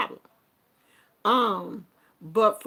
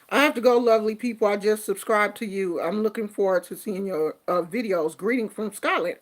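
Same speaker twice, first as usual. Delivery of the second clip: put-on reading a comment in a rough Scottish accent; a hint of a Scottish accent, fast; faster than usual. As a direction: try out a Scottish accent for fun. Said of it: "I'm just trying to do one because it is one of the accents that I like".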